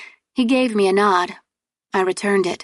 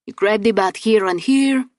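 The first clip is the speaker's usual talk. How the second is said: put-on Hispanic accent; 2 semitones higher than usual. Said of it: "He had a thick Hispanic accent".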